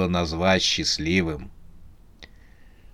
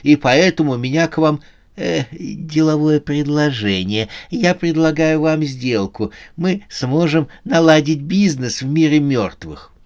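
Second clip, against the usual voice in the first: put-on high-pitched old man making a pitch; hesitant deal-maker in a raised voice; old man bargaining; 6 semitones higher than usual. Rich old man offers Susanna a deal, high-voiced.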